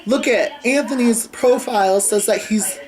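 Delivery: imitating a tattling brother, high-pitched and urgent; mock scandalized outburst. Brother shows Dad the profile he found, mock scandalized.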